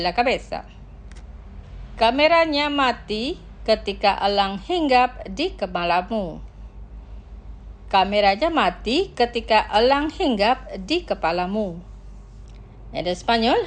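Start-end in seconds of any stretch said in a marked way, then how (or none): 2.0-11.8 measured sentence, phrase by phrase; slow pronunciation. Shown as a demonstration. Teacher models the sentence for repeating, slowly. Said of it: "Los pronunciaré lentamente".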